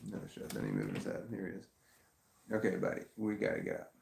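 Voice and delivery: gravelly morning voice; low tired gravelly voice. Real, not acted. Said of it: "Wait, my voice sounds gravelly".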